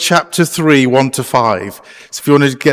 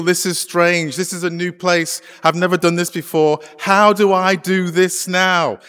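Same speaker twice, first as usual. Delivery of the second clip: softly, as if thinking aloud to yourself; a quiet, uneasy question to yourself; hushed worried inner voice; 7 dB quieter than usual. Acted. Preacher voicing the congregation's private fears, hushed.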